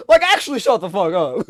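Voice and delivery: loud exasperated telling-off; angry retort. Real, not acted. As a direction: tell the complainers off hard. Repeats telling-off to fans.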